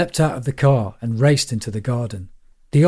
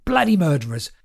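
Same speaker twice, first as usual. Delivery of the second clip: manic accusation; 5 semitones higher than usual. A narrator's reading. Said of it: "shouting at children".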